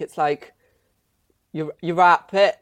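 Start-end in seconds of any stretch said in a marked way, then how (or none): 1.5-2.6 attempted Welsh accent, slow and louder. Shown as a demonstration. Asked by a friend to do Welsh, attempted Welsh accent. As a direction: have an unsure go at Welsh, slowly. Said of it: "Can you do a Welsh accent?".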